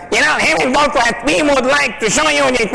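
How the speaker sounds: high, strained, croaky pitch voice; catfish voice. Acted. Presenter with a catfish voice pitching to a client. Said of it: "voice sounds like a catfish".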